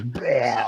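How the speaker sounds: mock vomit sound. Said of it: "the kid goes".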